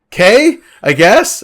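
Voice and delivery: high, slow grudging okay; reluctant. Pretend. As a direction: grudgingly go along with it. Reluctant dungeon master voiced.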